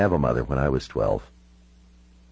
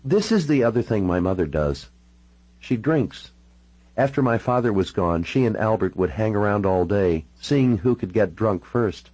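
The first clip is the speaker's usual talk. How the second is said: lightly voiced woman, pitched up; Natalie confiding, drinking; 3 semitones higher than usual. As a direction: tell of mother's drinking in a higher character voice.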